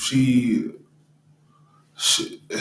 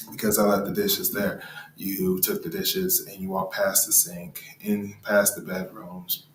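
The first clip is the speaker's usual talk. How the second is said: calm quiet reflecting; 3 semitones lower, 5 dB quieter than usual. Retold or imitated. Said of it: "And I said".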